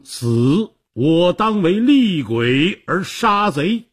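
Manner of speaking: ringing heroic roar, rising in pitch; mighty roar. A narrator's reading. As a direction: cry it out as a dying warrior's vow. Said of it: "他大吼一声".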